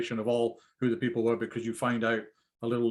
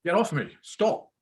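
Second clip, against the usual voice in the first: distressed plea; 6 semitones higher, 4 dB louder, slower than usual. Acted. Tony crying, pushing Donald away.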